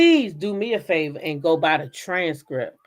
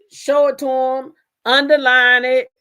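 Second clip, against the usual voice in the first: judge's order; 4 semitones higher, 8 dB louder than usual. Retold or imitated.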